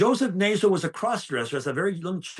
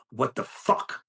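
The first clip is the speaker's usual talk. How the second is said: hissed under the breath, right in his face; a whispered threat to the inmate who broke the cup; menacing whisper; 4 semitones lower, slower than usual. Retold or imitated.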